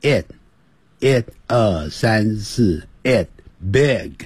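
"it" and "big" with a short lax i; short vowel. Shown as a demonstration. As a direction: drill the short i in "it", then "big". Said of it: "短的元音". (示范 it 和 big 的短元音)

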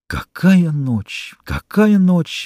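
slow, high rapturous exclamation; drawn out, high and overwhelmed; exclaimed. A narrator's reading. Young man to his love, overwhelmed, slow high exclamation. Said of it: "воскликнул он".

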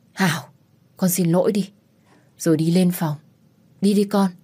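mother-in-law hurries her upstairs; anxious coaxing; urgent urging. Acted.

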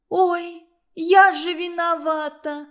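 indignant disbelief at the blame; surprised. A narrator's reading. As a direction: Tosya shocked at being blamed. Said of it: "удивилась Тося".

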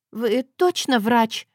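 slow scared whimper. Acted. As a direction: whine it out in fear. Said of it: "проскулила я".

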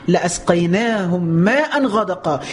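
slow drawn-out chant; slow tajweed recitation; Quran recitation. Acted. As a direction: intone each word slowly.

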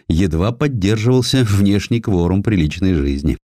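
ordinary delivery, nothing marked

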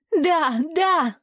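high wailing yes, yes; screaming yes. A narrator's reading. Woman in pain screams her surrender, high and wailing. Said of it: "завопила".

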